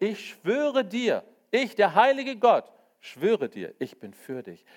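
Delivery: ringing divine oath; God's solemn oath. Acted. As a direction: swear it with holy weight. God swearing an oath, quoted.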